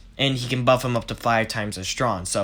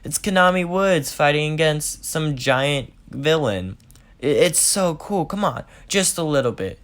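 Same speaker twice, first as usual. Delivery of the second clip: higher, excited begging; eager Deku voice; 4 semitones higher than usual. Acted. Deku begs Kacchan to stay and watch the hero fight, eagerly. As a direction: wheedle like an excited fanboy.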